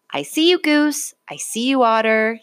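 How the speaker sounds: cheerful call to friends he has found. A narrator's reading. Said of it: "he called".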